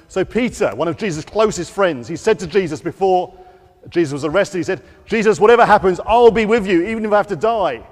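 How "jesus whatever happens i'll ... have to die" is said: earnest vow. Acted. Peter vows loyalty to Jesus.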